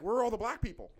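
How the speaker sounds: high, loud mock bewilderment; incredulous question. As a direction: imitate a roommate baffled by the photos. Roommate's acted disbelief at photos.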